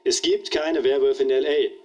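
slow, stress on "gibt"; police chief stating it in aller Deutlichkeit, slow with "gibt" stressed; emphatic, clear statement. Acted. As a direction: lean hard on "gibt", word by word. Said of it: "ich sage es gerne noch einmal in aller Deutlichkeit".

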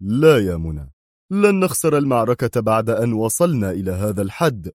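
mildly stern, resolute refusal. Acted. Qadri refusing to accept defeat before Mona, sternly. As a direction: put your foot down firmly. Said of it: "وقال في صرامة".

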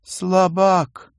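high, loud scornful dismissal; contemptuous. Acted. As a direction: spit it out with contempt. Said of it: "без уважения глядя на Германа".

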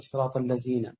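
"الذين" said as alazina with a z; dhal as zay. Shown as a demonstration. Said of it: "أو الدال يقربها زين". (نطق الذال زايًا في "الذين")

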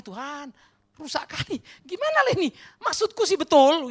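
high, exasperated plea to God; retold outburst, rising to a shout; startlingly loud prayer. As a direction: protest loudly in prayer. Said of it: "sampai orang kaget dengar saya".

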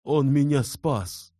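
high, loud, slow cry of gratitude; exclamation. Acted. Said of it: "воскликнул Инсаров".

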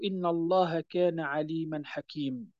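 حكيم cut short, ending on a bare m with no long a; wrong stop. Shown as a demonstration. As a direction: clip حكيم off at the m. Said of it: "فإننا لا نقول". (حكيم بوقف خاطئ بلا مدّ في آخرها)

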